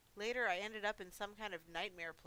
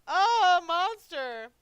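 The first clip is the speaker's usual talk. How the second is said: high, very loud mock shriek; mock scream; 10 semitones higher, 17 dB louder, much slower than usual. Monster mimicking folks who see him, mock scream. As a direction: cry out like a horrified onlooker. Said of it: "it's all screams and shrieks".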